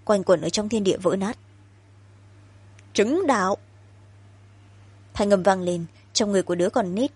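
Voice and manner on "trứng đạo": put-on bitter child shout; hate-filled child cry. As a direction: spit the words out in hatred. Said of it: "Giọng của con nít tràn ngập hận".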